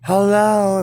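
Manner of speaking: a loud, mocking Hello, are you kidding; sarcastic yell. Ranting at the cop about the maskless girls, sarcastic shouted Hello.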